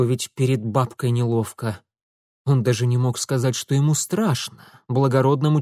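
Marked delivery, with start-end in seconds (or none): none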